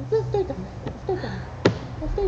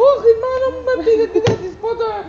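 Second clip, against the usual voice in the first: mock panic; 3 semitones higher, 5 dB louder, faster than usual. Panicked call from his mother.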